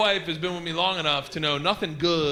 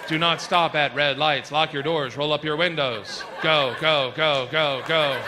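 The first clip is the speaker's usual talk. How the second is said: urgent navigation voice; 3 semitones lower, slower than usual. Acted. Navigation voice turns to urgent warning.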